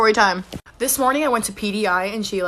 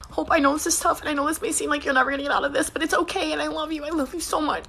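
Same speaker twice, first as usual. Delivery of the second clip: high, soft mock-weepy reassurance; imitated tearful comforting; 5 semitones higher, 3 dB quieter than usual. Crying sister comforts the supposedly jailed prankster, mock tearful. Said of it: "She starts crying".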